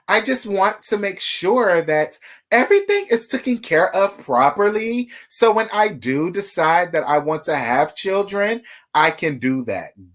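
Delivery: mock her careful Valley girl delivery; Tambra's Valley girl voice. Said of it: "this Sweet Valley girl high accent".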